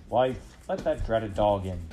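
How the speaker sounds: put-on an annoyed old farmer ordering his wife; gruff farmer. Farmer to his wife, grumbling about the dog.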